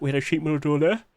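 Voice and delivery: talking through a yawn. Real, not acted. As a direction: yawn mid-sentence. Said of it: "Sorry, I'm yawning".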